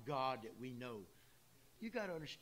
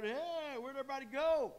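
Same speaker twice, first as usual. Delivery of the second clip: surprised; 9 semitones higher, 5 dB louder than usual. Retold or imitated. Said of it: "he would soon find out".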